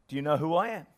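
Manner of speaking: mildly coy, retold in a joke; smiling question. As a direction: ask it with a teasing smile. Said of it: "she starts to smile".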